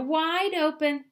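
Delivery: loud, high and slow yell; the wife yells slowly and loudly up at the fox. A narrator's reading. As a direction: call out each word to hold his jaw open. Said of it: "yelled his wife".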